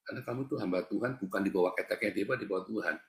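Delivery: soft, hushed retold prompting; Holy Spirit. Holy Spirit warns the preacher to speak up, quietly retold. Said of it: "Roh Kudus ngomong beneran".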